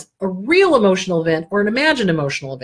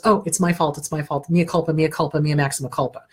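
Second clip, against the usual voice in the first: put-on wounded inner child; 3 semitones lower than usual. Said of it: "that inner child immediately goes".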